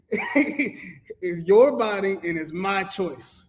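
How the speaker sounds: slow, drawn out through laughter; slow laughing quote. Retold or imitated. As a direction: spell it out slowly while laughing. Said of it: "He said".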